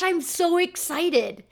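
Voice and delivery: high and slow, gushing like a student; excited kid. Retold or imitated. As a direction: stretch it out, still thrilled. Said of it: "kid can come in and be like".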